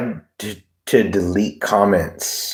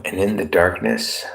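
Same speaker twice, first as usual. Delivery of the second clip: slow, dramatic movie-trailer voiceover; movie guy voice. Pretend. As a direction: intone it like an epic film trailer. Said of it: "It's the movie guy".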